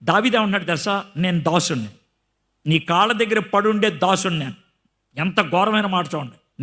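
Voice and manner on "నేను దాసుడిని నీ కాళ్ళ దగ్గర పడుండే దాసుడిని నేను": humble. Retold or imitated. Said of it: "అలాగా దీనంగా మాట్లాడుతూ".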